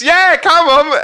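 very high, loud hen-party shout; egging him on. Retold or imitated. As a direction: yell impatient encouragement at the stage. Hen urges comedian on.

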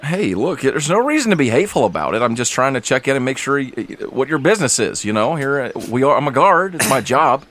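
high, fast, indignant guard; offended guard. Acted. Guard defends his job to rude travellers, indignant and high. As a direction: protest like a wounded official.

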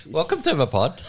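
a hint of Irish lilt on the welcome; botched Irish accent. Cohost welcoming listeners in a failed Irish accent. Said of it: "that is not the accent I was after".

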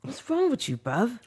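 put-on high-pitched playful British accent; mock British accent. Teasing a friend as bruv, mock British accent.

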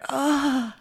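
high exasperated groan; mock groan. Hungover host facing perky friend, mock exhausted groan. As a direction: groan as if worn out by someone's cheer. Acts own hungover reaction.

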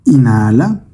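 calm meditation guide, measured phrases with long pauses; guided meditation. Acted. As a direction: lead the listener gently through breath and imagery, unhurried. Leads a guided breathing meditation. (meditación guiada, voz tranquila y pausada)

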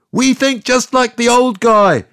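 high, loud crowd shout; crowd yelling. Retold or imitated. Crowd answering Pilate, loud mob shout. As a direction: shout it back as one mob. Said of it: "they yelled".

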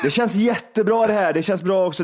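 mock a pop singer. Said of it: "Han sa ju det flera gånger".

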